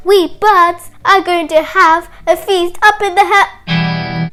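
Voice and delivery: slow, loud proclamation, cut off; very loud parrot. Acted. Parrot repeats everything, very loud announcing. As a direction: blurt the secret out loudly, word by word. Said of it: "very loudly".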